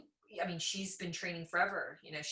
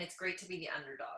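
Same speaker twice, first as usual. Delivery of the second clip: soft quick whisper; hushed, fast whisper; whispered aside; 5 dB quieter, faster than usual. Real, not acted. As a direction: confide it under the breath. Aside about ignorance.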